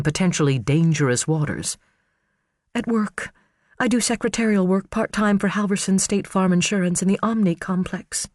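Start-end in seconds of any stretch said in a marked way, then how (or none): 2.7-8.3 high, pleading woman's voice; earnest, anxious defence of her husband; Karen's voice. Acted. Karen defending Garrett on the stand, high and pleading.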